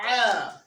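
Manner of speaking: Ah pressed from the middle of the throat, strained; squeezed throaty Ah; throat ain. Shown as a demonstration. Teacher demonstrates ain from the mid throat. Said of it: "you get this sound".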